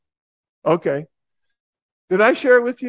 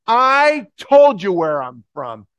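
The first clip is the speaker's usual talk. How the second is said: slow, louder, irritated reply; a little upset; 3 semitones higher, 7 dB louder, slower than usual. Retold or imitated. Preacher answers the heckler, mildly irritated and louder. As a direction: push back, annoyed and firm. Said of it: "I got a little upset".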